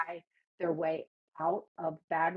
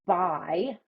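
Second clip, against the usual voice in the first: air quotes; 4 dB louder than usual. Real, not acted. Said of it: "I'm doing air quotes".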